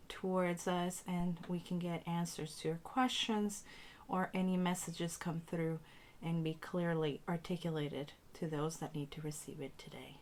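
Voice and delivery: spoken prayer, unhurried and deliberate; cleansing invocation. Acted. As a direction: recite a blessing over the space in short, paused phrases.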